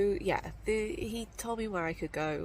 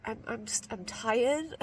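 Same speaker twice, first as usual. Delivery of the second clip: higher, louder, half-laughing self-pity; mock whiny complaint; 5 semitones higher, 4 dB louder than usual. Hiker retelling her excuses to the talker, mock whiny. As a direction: whine it like a tired kid. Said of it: "And I just was like".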